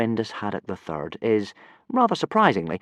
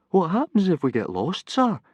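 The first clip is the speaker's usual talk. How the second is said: higher, anxious plea; pleading; 10 semitones higher than usual. Acted. Nervous boy pleading with his teacher. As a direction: beg for reassurance. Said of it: "pleaded Fishlegs".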